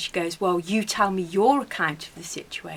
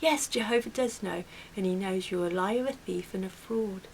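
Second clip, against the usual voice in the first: mock very calm, soft, even delivery; 5 dB quieter than usual. Recounting a confrontation with a woman who stole the speaker's cream; retelling a calm reply. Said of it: "I just very calmly looked up".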